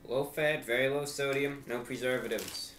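slow, drawn-out label read; product announcer. Pretend. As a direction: present the snack like an ad.

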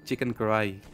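"karai" said the way he says it at home, without the h; Urdu pronunciation. Shown as a demonstration. Explaining to chat how the dish name is said in Urdu. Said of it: "but we say it like".

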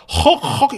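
mimicked choked gasping; mock hitched gasps; imitated sobbing gasps. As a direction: act out gasping too hard to speak. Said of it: "이러면서 말을 못해요".

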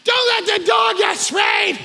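put-on high, drawn-out wail of pleading kids; mock crying. Two kids crying in a corner over the dog, mock wailing. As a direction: imitate children wailing in a corner. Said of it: "in a corner just crying".

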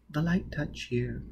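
breathy whispered lines; feed him the line in a whisper; whispered prompt. Acted. Robin whispering the witty answer to Foyle.

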